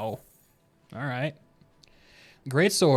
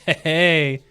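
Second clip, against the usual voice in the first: teasing chat rules; 4 dB louder than usual. Retold or imitated. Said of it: "and they're like".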